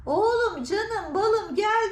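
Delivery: imitated coaxing call.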